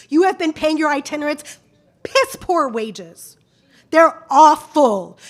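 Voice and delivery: slow, biting indignation; furious speaker scolding the board; angry. Real, not acted. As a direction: drag out piss poor wages with contempt. Angry parent addressing school board.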